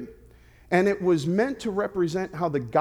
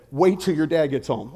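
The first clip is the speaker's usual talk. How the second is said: thundering prophet voice; 3 dB louder than usual. Retold or imitated. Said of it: "like an Old Testament prophet".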